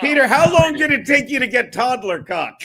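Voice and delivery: real laughing shout at his brother; loud laughing tease. Real, not acted. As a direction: needle him loudly, then crack up. Teasing brother on phone.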